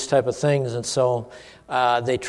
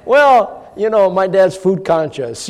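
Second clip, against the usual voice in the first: laughing; 5 semitones higher, 3 dB louder, slower than usual. Real, not acted. Laughing while telling family story.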